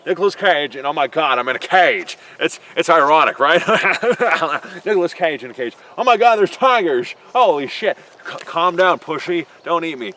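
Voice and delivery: hammed-up Nicolas Cage freaking out in a cage; Nicolas Cage impression. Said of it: "that's a horrible Nicolas Cage".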